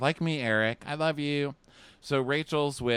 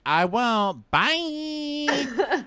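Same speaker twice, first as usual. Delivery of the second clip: higher, louder brush-off; curt dismissal; 5 dB louder, much slower than usual. Retold or imitated. Rachel dumps a crying contestant, higher and curt. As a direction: cut him off and wave him away. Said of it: "She's like".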